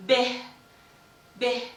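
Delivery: B said with a full voiced b, as in book; Arabic B. Shown as a demonstration. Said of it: "in Arabic it's called".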